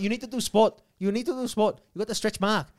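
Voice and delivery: Asian-accented masseuse impression; imitated Asian accent. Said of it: "kept talking to me like this".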